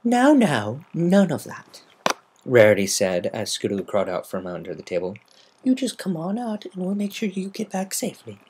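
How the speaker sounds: coaxing treat offer; gentle coaxing. Acted. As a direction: coax a scared filly out. Rarity soothing.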